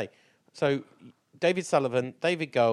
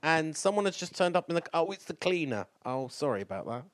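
put-on Scottish accent; 4 semitones higher than usual. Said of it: "Your Scottish accent is brilliant".

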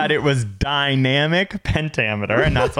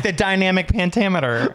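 lightly raised pompous voice; mock cohost; 4 semitones higher than usual. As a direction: imitate her saying it grandly. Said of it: "you'll be like".

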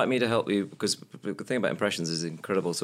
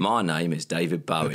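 lower-pitched amateur Cockney; 5 semitones lower than usual. Shown as a demonstration. Co-host echoing the Cockney attempt before poshing it, low Cockney. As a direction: drop down into a Cockney line as a singer. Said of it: "in a Cockney way".

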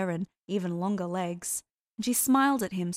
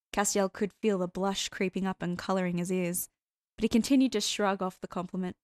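ordinary delivery

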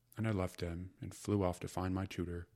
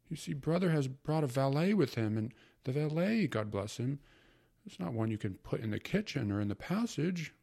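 high, loud fussing mother; fretting mother; 6 semitones higher, 4 dB louder than usual. Acted. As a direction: fuss like a harried housewife. Mother's voice in story.

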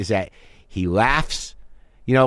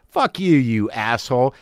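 slower, under-the-breath insult; mock hostile aside. Shown as a demonstration. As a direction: spit out the private insult. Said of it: "I was talking to a made-up person".

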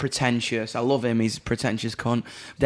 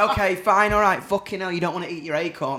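mock exasperation. Exasperated at Jess.

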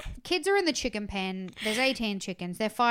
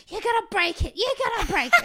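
high, loud mock kid voice; worried kid; 11 semitones higher, 8 dB louder than usual. Retelling a kid warning the other to stop touching the egg, high and loud. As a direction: squeal it like a fretful child. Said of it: "And the other guy's".

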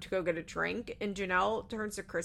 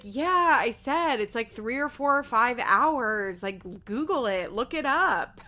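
louder, drawn-out insistence; mock defensive; 3 semitones higher, 6 dB louder, slower than usual. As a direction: imitate someone doubling down, stretching the words. Acting out husband's defensive backtracking.

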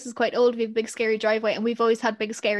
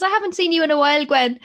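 tag; 4 semitones higher, 5 dB louder than usual. Retold or imitated. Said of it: "And he says".

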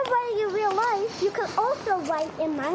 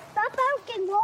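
yelling at the dog; 3 semitones higher than usual. Real, not acted. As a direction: snap at the barking dog. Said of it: "let's not yell".

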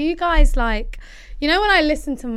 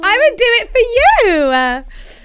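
mock pleading; 9 semitones higher, 7 dB louder than usual. Pleading to listeners.

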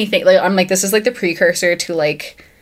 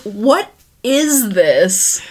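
mock baffled; 3 semitones higher, much slower than usual. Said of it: "you're like".

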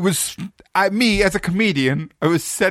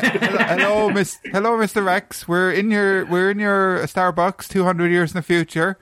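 customer voice; 4 semitones higher than usual. Acted. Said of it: "I was playing an average customer".

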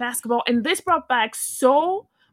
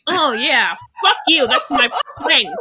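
defiant boast; 4 semitones higher, 5 dB louder than usual. Retold or imitated. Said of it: "it's like".

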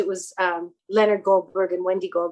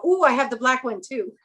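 higher, cooing "ooh" of recognition; mock delight; 4 semitones higher than usual. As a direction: act out pleased recognition. Retold delighted reply about second gown.

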